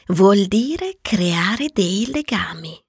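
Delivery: slow, secretive whisper; whispering the secret of taming. Acted. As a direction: confide it slowly in a hushed voice. Fox explains taming.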